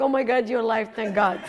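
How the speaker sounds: laughing with relief; giddy relief, laughing through it. Retold or imitated. Hugging the guy she thought would die, laughing. Relief at seeing him alive.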